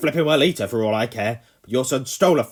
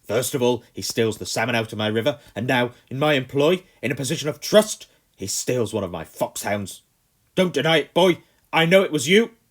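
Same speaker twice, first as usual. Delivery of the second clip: loud, high furious rant; 7 semitones higher, 12 dB louder than usual. A narrator's reading. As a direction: rant at the boy, fist shaking. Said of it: "the Colonel ranted on".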